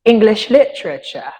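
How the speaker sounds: English literature in a light British accent; a hint of a British accent on English literature. Shown as a demonstration. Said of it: "Or, as the people who reside up there".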